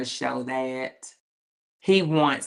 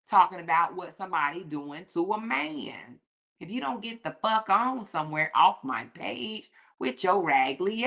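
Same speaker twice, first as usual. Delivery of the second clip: high-pitched scolding clapback with attitude; sassy read; 4 semitones higher than usual. Real, not acted. Telling off a commenter on her page, sassy high-pitched scold. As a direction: read her for filth, all sass.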